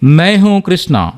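slow, proud star introduction on మై హూ Krishna; celebrity style. Shown as a demonstration. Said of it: "అప్పుడు ఎలా చెప్తాను నేను?".

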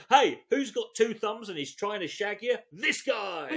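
cheesy pick-up guy. Acted. Comic mocking the seduction script, hammed-up chat-up voice. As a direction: play a cocky seducer, lightly. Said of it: "he's supposed to say".

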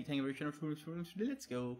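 very slow stretched thank-you; drawn-out thanks. Real, not acted. Streamer thanking Carry for a donation, very slow. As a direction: stretch it out lazily.

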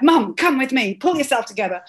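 put-on a teen hauling her mum off, brisk and firm; daughter scolding. Daughter dragging her crying mum away, firm and brisk. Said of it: "She was like".

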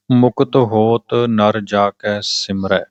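slow, measured recitation of a sacred hymn; scripture recitation. Acted. Reciting the Ramkali hymn for listeners before explaining it, slow reverent recitation. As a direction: recite each word deliberately, drawing out the line endings.

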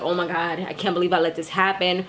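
low, soft fretting to herself; retold frustration. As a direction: imitate quiet frustration under your voice. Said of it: "she's getting frustrated".

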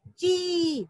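ची with a long, held ee; long ee sound. Shown as a demonstration. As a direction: stretch the vowel in ची. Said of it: "क्या बन जाएगा बच्चों". (ची को लंबी ई से खींचकर)

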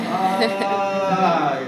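long, drawn-out mock moan; exaggerated sick groan. Preacher mimics himself sick seeking attention, exaggerated groan. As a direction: play up a little ailment for attention. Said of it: "Yo exagero mucho cuando estoy enfermo".

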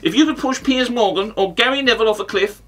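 pompous pundit impression full of ornate insults; Simon Jordan. Comic challenging the pundit with a question, impersonating him. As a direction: pose a question as a put-on pundit. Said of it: "this impression".

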